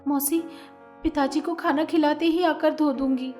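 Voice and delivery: loud, harsh stepmother scolding. A narrator's reading. Stepmother scolding the girl to go wash clothes, loud. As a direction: bark orders at the girl. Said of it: "वो जोर से डांटती है".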